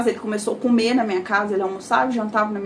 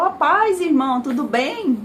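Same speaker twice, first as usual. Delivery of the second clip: cheerful greeting; 4 semitones higher than usual. Retold or imitated. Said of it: "eu era alegre".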